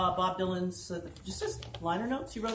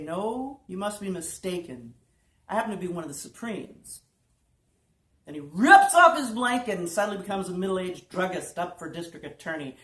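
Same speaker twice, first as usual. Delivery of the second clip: animated storytelling read; prose poem recitation; 2 semitones lower than usual. A narrator's reading. Performer reads a singer-songwriter's liner notes to an audience, animated recitation. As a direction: read it like a wry beat-style tale.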